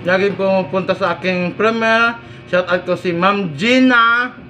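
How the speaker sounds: chewing while talking; speaking between bites; mouth full of food. Real, not acted. Seen 3: Bites food at -2; food visible in open mouth through 4.2.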